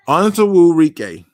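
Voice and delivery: "Onwuzurike" drawn out slowly, syllable by syllable; slow, deliberate stab at "Onwuzurike"; careful name attempt. Real, not acted. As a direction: sound out "Onwuzurike" in full, taking your time. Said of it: "Is that right?".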